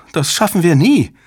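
high, despairing whine; wailing. A narrator's reading. Soshi despairs at the shutdown order, wailing. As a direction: wail that it is hopeless. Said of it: "jammerte Soshi".

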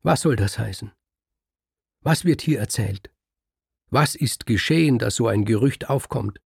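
wife to husband, hurt and furious; upset outburst. Acted. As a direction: pour out the outrage, escalating. Kriemhild runs upset to Siegfried.

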